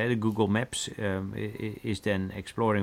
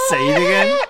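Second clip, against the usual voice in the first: excited; 12 dB louder than usual. Real, not acted. Egging him on, laughing.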